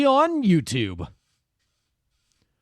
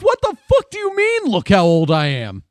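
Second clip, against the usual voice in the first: indignant retort; 4 semitones higher, 4 dB louder than usual. Retold or imitated. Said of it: "And I'm like".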